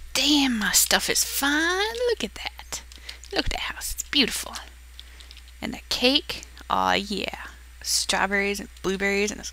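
soft, admiring whisper. Real, not acted. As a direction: whisper it in awe. Whispered admiring of own build.

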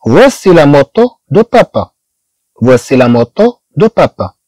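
each word of "voici le père de René" stretched out slowly; slow French model sentence. Shown as a demonstration. Teacher reading the French example slowly to students. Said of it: "إذا أخذنا هذه الصورة".

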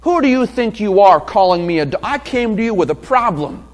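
indignant retort, a touch hammed-up; mild pretend indignation; mock outrage. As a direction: play the offended woman lightly. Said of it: "She doesn't get up and say".

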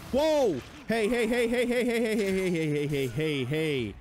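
loud high whoa, then rapid-fire heys sliding down; startled yell that tumbles down in pitch; alarmed. Real, not acted. Player backs off from lunging enemy, alarmed.

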